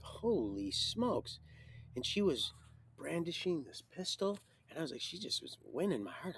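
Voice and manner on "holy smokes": retold amazement. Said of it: "so I was like".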